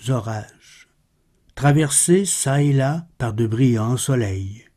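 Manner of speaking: measured, solemn poem reading; poetry recitation. Acted. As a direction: recite the verse with deliberate pauses between phrases. Recites Baudelaire's poem after introduction. (récitation de poème, posée et solennelle)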